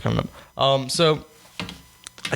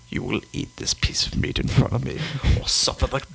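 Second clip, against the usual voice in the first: menacing whisper. Pretend. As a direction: whisper it like a demonic stare-down. Mock threat to the diner.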